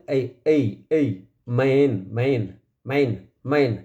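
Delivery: ए stretched, then मैन drawn out slowly; slow sound demo. Shown as a demonstration. Teacher showing students how to say मैन, slowly. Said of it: "पहले हम कैसे इसका sound बोलेंगे".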